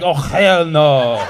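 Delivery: put-on slow, drawn-out Arab-accented oh hell no; mock indignant Arab drawl. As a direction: let the Arab accent take over, slowly. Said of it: "the Arab came out".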